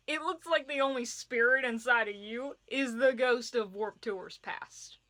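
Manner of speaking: roast them sweetly, then sink the punchline; teasing fairy. Acted. Fairy mocking the reader's emo gloom, teasing then slowed.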